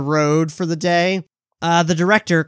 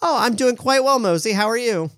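Megan's voice; 7 semitones higher than usual. Acted. Megan answers Mosey in character.

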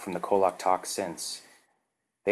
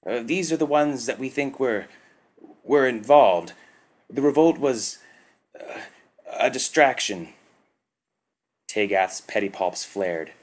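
higher, faltering worker voice; hesitant worker; 5 semitones higher, 4 dB louder than usual. A narrator's reading. Worker explains the distraction to Tagath, faltering. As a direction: stammer out the explanation.

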